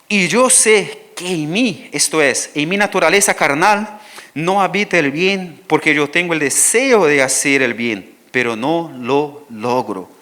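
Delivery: slow, weighty reading of the verse; emphatic scripture reading. Acted. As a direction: read it slowly like a confession. Reads Romans aloud. (lectura lenta y enfática del versículo)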